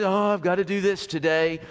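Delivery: mock weary grumble; reluctant chore. Preacher imitates someone treating love as a chore, reluctant grumble. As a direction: groan it out like a dreaded duty. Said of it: "do this and be mumbling under your breath".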